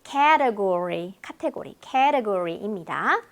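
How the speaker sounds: "category" very slow, stress on KA; English stress. Shown as a demonstration. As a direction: stretch "category", first syllable strong. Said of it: "강세가 틀려요".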